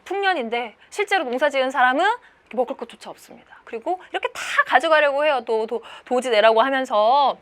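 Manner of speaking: ordinary talk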